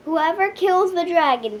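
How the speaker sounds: king's loud proclamation; ringing royal cry; cried out. A narrator's reading. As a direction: call it out to the whole kingdom. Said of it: "cried the king".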